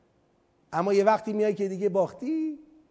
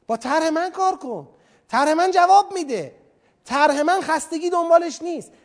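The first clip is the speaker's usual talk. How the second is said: loud, insistent sales pitch, much higher; God as salesman; 4 semitones higher, 5 dB louder than usual. Acted. Preacher voicing God pitching His design to people, loud and insistent. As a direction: sell the design hard, almost shouting. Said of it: "خدا میگه".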